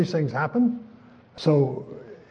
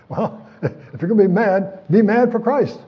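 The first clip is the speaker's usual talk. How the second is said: rising exhortation; 5 semitones higher, 4 dB louder than usual. Acted.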